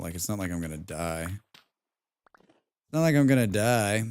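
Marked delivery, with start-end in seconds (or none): 1.3-4.0 slow, drawn-out mock-tragic line; mock dramatic. Shrugging off the panic, in a slow hammed-up tragic drawl. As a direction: stretch it out like a hammed-up melodrama. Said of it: "I don't know why I'm freaking out".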